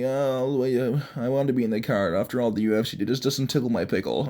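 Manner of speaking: mock whimper, softly put on; Jones crying. Host mocks Jones crying on Twitter, mild fake whine. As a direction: imitate a sulky crybaby, half-hearted. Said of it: "he's over here on Twitter crying".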